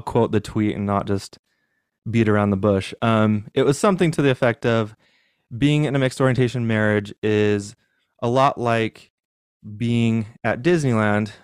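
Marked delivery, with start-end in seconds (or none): 5.6-11.3 slightly winded, catching breath. Real, not acted. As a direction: talk while still short of breath. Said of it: "I'm, like, out of breath".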